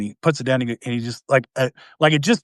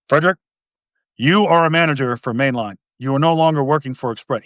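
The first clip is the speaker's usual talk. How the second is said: lightly imitated stern, serious boss; real serious manager. Stern manager telling Frederick his new position, mildly serious. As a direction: play a no-nonsense manager, understated. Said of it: "He talked like that".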